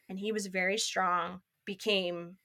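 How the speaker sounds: usual speaking voice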